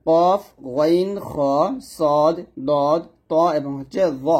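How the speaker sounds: slow, drawn-out কফ, গইন, খ, each heavy and rounded; thick heavy letters. Shown as a demonstration. Teacher has learners note the seven letters, thick and slow. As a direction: stretch each letter with a full thick sound. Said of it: "এই সাতটা হরফ সবসময় মোটা হবে".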